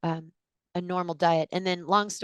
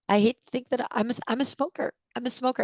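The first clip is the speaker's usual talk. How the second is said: distraught confession; 6 semitones higher than usual. Retold or imitated. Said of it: "she just started sobbing".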